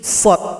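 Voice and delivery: shad voiced thick and dark; heavy shad. Shown as a demonstration. Teacher isolates the heavy shad letter. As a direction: darken the shad. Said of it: "hurufnya tebal".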